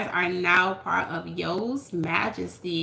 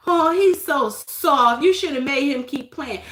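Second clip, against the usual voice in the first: mock parent; 4 semitones higher, 4 dB louder than usual. Parent dismissing soft kid.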